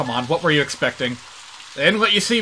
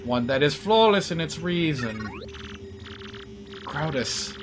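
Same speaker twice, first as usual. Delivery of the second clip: robot voice; 3 semitones lower, 4 dB quieter than usual. Acted. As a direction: speak like a calm, polite machine. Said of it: "we have an actual computer character in this game".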